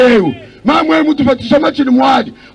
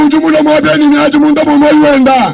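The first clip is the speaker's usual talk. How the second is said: interpreter echoing the preacher with force; interpreted sermon. Acted. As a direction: carry the preacher's lines into the local tongue.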